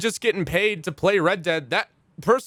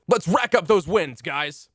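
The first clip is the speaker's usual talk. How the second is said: overacted anime dub; 2 semitones higher than usual. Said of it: "esports anime main character".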